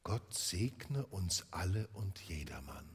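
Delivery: put-on a frail child echoing the toast; Tiny Tim, soft and gentle; small sick boy. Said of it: "war ein kleiner Junge".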